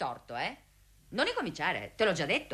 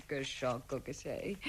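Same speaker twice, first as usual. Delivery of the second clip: whispering while hiding; 13 semitones lower, 13 dB quieter, slower than usual. Acted. Lovers whispering, hidden at night.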